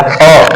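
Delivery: अ ending in a throat-made h; throat sounding last. Shown as a demonstration. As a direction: finish अ with a puff from the throat. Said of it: "कंठ बाद में बज रहा है".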